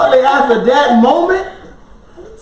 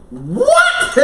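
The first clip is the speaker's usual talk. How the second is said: sudden very high disbelieving what; stunned what. Retold or imitated. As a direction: shoot the pitch way up in shock. Disbelief at wife's words.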